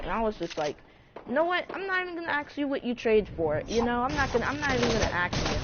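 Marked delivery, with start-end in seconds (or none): 1.3-5.6 high-pitched, done-with-it refusal; exasperated dismissal. Retold or imitated. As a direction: throw your hands up and refuse to ask. Refusing to hear the details.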